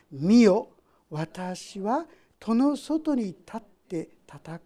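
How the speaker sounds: slow, solemn Bible reading; slow solemn reading for the congregation; scripture reading. Acted. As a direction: read each phrase slowly, with weight. Reads scripture aloud.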